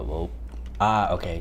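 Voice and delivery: ordinary talk, nothing marked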